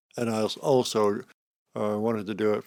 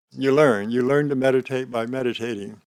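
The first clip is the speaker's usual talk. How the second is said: emphatic; 2 semitones higher, 6 dB louder than usual. Real, not acted. Emphatic teaching point.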